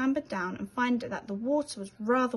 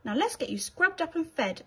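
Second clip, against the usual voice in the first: kindly; 6 semitones higher than usual. Acted. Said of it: "Eduardo said kindly".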